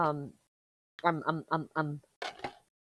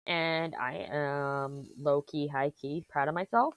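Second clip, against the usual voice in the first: ironic zoomer; 2 semitones lower, 3 dB quieter, slower than usual. Pretend. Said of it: "Look at me talking like a Zoomer".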